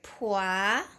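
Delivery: "Poisson" cut as "pois-son" with a rise; sounding out "Poisson" in class; split into syllables. Shown as a demonstration. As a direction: chop "Poisson" in two for a child.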